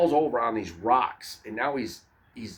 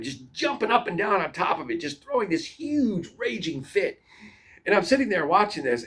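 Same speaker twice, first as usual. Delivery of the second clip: usual speaking voice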